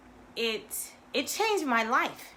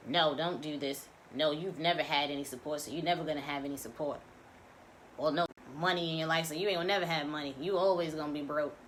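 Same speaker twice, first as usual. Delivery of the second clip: lower, fast, lightly voiced nagging inner voice; voice of the ego; 6 semitones lower, faster than usual. Voicing the ego's discouraging chatter for listeners, lower and fast. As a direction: rattle off the ego's put-downs, a touch darker. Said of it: "Those impressions are ego telling you".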